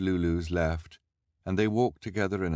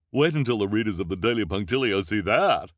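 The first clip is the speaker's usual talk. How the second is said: gushing reporter; 4 semitones higher, 7 dB louder than usual. A narrator's reading. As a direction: spell out the headline with relish. Reporter voiced.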